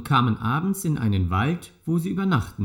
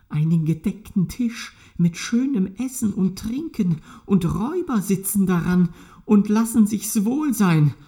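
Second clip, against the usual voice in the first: hushed whisper at the window; 6 semitones higher than usual. A narrator's reading. Donkey peering at the robbers whispers to the rooster. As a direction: whisper so the robbers won't hear.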